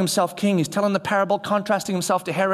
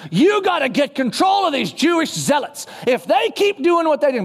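imitating Roman officials; 6 semitones higher than usual. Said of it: "Those guys are in your office every day going".

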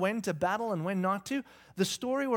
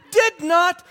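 high, loud yelled denial; imitated child's retort; 10 semitones higher, 13 dB louder than usual. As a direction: shout back like a bickering little boy. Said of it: "Cullen goes".

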